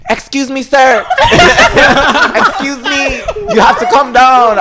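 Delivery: stern guard calling up, laughing; security guard. Retold or imitated. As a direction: call him down from the tree. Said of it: "Security run up to the tree".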